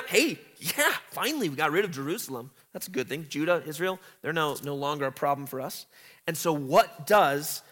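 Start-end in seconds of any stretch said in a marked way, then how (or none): 0.0-5.9 fast, light mock gloating; gloating enemies. Teacher voicing enemies gloating over Jerusalem, mock. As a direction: toss it off like a smug enemy. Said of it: "they're rejoicing".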